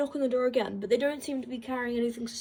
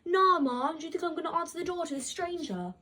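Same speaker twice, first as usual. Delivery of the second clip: higher-pitched mock-incredulous comeback; imagined retort; 4 semitones higher than usual. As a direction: toss it off quickly, as if scoffing at mom. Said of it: "in my head, I'm like".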